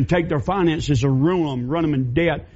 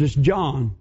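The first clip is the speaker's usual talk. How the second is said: lower, hesitant stammer of a woman hiding the truth; timid battered woman; 4 semitones lower than usual. Acted. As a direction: stammer the excuse, eyes down. Mary confessing.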